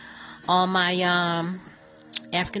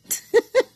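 quick laugh; 5 dB louder than usual. Real, not acted. Laughs after asking "what is that.

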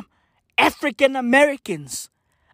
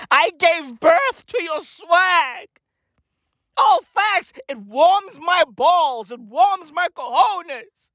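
hype shout; 3 semitones higher, slower than usual. Real, not acted. Hyping up the diaspora.

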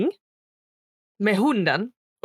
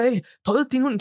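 really angry; 4 semitones higher than usual. Retold or imitated. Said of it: "typ skitarg".

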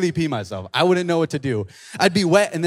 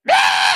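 short imitated screech; mock screech with a burst of noise; crazy screech; 11 semitones lower than usual. Sudden screech at the disciples leaving their boat, crazy screech. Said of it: "you hear a screech".

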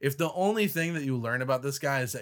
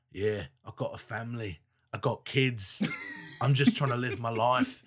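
put-on accented everyman voice; imitated pleading janitor; 2 semitones lower than usual. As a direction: play the hapless working guy pleading for himself.

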